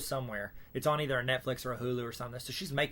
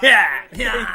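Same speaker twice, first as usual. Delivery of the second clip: much higher, louder yeah yeah; tossed-off happy yeah yeah like Kel; Kel's yeah yeah; 6 semitones higher, 15 dB louder than usual. Retold or imitated. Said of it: "at the very end he goes".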